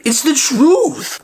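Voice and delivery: squeaky, drawn-out sidekick; high slow friend voice. Acted. Friend shrugs off the betrayal, high and slow. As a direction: pitch it way up and slow it down.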